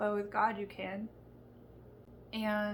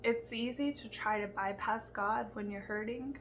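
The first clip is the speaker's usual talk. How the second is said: emotional; 3 dB quieter than usual. Real, not acted. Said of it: "I'm sorry, I'm getting emotional".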